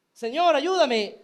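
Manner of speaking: loud, high desperate cry to the Lord. Acted. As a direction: shout it like a mother begging for help. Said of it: "sino que se mantuvo gritando".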